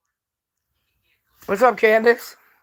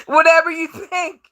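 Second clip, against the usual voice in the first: higher, laughing brush-off; laughing dismissal; 4 semitones higher than usual. Real, not acted. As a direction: scoff through laughter.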